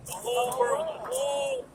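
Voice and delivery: rising emphasis on whole world; emphatic high. Real, not acted. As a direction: lift it up high to land the point. Stressing meaning of world.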